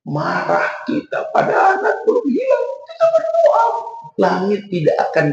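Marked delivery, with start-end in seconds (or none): 0.1-3.6 emphatic preaching. Real, not acted. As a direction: hammer the point home. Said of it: "preacher stresses the point".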